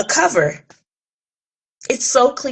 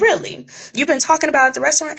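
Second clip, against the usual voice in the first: incredulous; 6 semitones higher, much faster than usual. Retold or imitated. Incredulous reply on phone.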